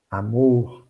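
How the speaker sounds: Juju's gentle plea to her husband; delicate wife voice. Retold or imitated. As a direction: call him sweetly like Juju. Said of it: "com uma entonação de voz delicada".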